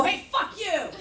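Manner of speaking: high mock snap of a curse; sudden hostile snap. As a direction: flip from sweet to hostile. Punchline snapped at guy.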